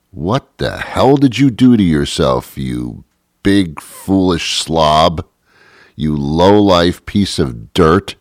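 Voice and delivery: mock scolding, drawn out at the end; imitating doctor scolding. Doctor scolding her heavy patient, mock angry. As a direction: ham up the doctor's contempt. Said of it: "That's how she talks to me".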